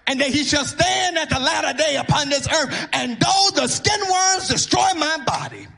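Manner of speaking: rising, joyful proclamation building to a shout; triumphant cry. Acted. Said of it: "And Job says".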